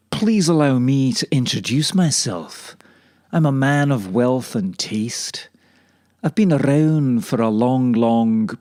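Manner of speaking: a lightly posh devil, a bit like Jeremy Irons; smooth, mildly posh gentleman's introduction. Retold or imitated. Devil at the crossroads introduces himself, lightly posh. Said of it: "he says in a posh voice".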